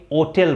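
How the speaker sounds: ओटेल with the h dropped, said oh-tel; silent h. Shown as a demonstration. Teacher shows how some British people say hotel, silent h. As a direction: say ओटेल starting straight on the o, no h. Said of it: "एच silent होता है".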